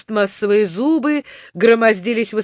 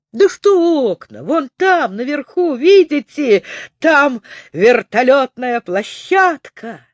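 higher, eager voice pointing upward; excited; 4 semitones higher than usual. Acted. Незнайка points out the helipad. (оживлённо, высоким голосом)

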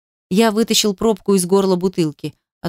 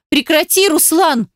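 cry out; 8 semitones higher than usual. A narrator's reading. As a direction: shout it, pitched up high. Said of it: "выкрикнула она".

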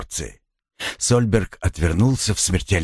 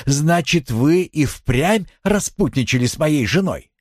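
raised, outraged question; shocked accusing husband; 8 semitones higher than usual. Acted. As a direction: blurt out the accusation.

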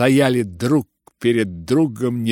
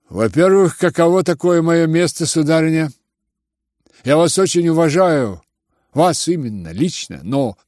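mocking reply; 6 semitones higher, 4 dB louder than usual. Ippolit answers mockingly.

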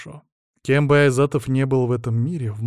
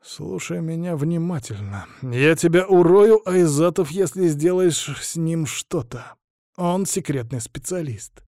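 slow, higher-pitched angry menace; malicious threat; 5 semitones higher, slower than usual. A narrator's reading. Boss warning the hostage over the phone, venomous. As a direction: measure out each word with malice. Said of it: "процедил со злобой в голосе".

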